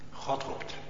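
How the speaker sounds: hushed breathy whisper. Acted. Preacher hushing his congregation, whispered. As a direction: breathe the words out.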